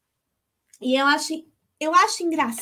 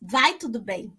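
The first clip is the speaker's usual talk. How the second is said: calm controlled answer; 5 semitones lower than usual. Retold or imitated. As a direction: hold the grief back and say it evenly. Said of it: "controle emocional".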